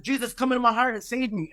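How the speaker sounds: high, pleading prayer; desperate prayer. Retold or imitated. Falling man begging Jesus to save him, high pleading.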